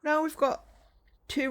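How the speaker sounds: talking through a yawn. Real, not acted. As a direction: stretch the words out mid-yawn. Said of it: "With the yawns".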